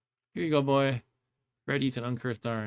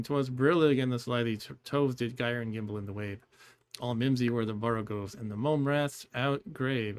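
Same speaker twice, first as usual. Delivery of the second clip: poem recitation. Acted. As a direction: recite the closing verse gently. Recites closing stanza.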